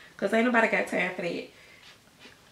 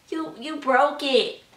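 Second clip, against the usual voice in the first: put-on whiny toddler; 5 semitones higher, slower than usual. Toddler complaining about sandwich.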